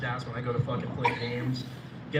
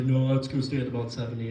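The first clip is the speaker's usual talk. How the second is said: roommate impression; 7 dB louder than usual. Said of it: "he's like".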